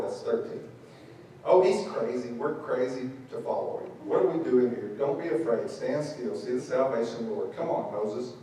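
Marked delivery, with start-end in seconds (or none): 1.4-8.3 lightly voiced grumbling crowd; mock grumbling Israelites complaining about Moses; grumbling people. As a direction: mutter a complaint under the breath. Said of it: "I mean, you can hear 'em".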